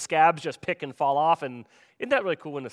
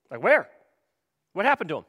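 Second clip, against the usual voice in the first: acted disbelief, raised voice; incredulous questioning; 4 semitones higher, 5 dB louder, faster than usual. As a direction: press for an answer in short bursts. Acting out Jesus' baffled question.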